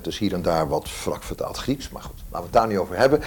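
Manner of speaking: ordinary delivery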